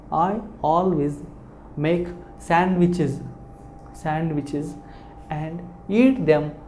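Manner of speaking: I always make sandwiches, said slowly with each word stressed; slow model reading. Shown as a demonstration. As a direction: spell out every word slowly, like a teacher. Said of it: "the pronunciation of I is also I".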